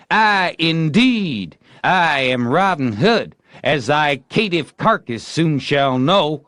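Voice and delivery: high, loud, slow heroic boast; boastful outlaw. A narrator's reading. Tom as Robin Hood naming himself, loud and proud. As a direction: announce yourself grandly.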